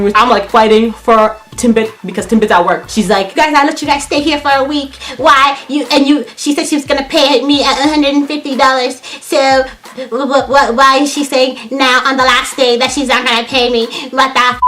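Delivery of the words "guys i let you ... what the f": higher imitated grievance; put-on indignant roommate voice; mock aggrieved complaint. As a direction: mimic her stammering protest, pitched up. Mimicking roommate arguing about money.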